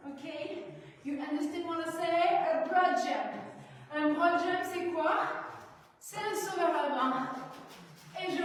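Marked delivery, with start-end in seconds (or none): 1.0-3.3 put-on English accent. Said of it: "Avec l'accent anglais".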